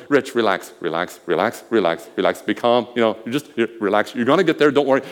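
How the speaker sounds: hushed inner reassurance; calming self-talk. Retold or imitated. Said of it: "I'm thinking".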